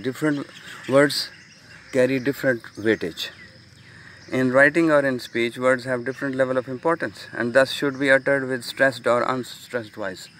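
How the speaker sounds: slow, deliberate reading of the slide. Acted. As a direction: read each phrase out slowly for students. Reads English slide text. (धीमे, ठहर-ठहर कर slide पढ़ना)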